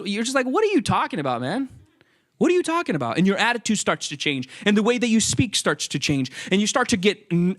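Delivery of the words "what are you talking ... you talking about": mock indignant. Irritated viewer snapping.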